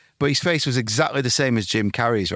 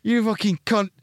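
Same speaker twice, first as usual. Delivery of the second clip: mock outrage; 11 semitones higher than usual. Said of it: "everyone went".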